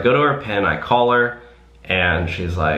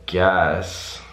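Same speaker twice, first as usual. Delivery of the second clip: reluctant inner okay; slower than usual. Retold or imitated. Thinking to herself about the drive-through wait: slow, reluctant giving in. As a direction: give in grudgingly, stretching the okay out. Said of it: "in my head, I'm like".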